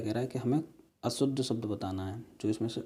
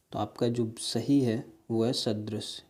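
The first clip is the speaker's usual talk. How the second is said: slow explaining; slower than usual. Shown as a demonstration. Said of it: "teacher gives correct answer".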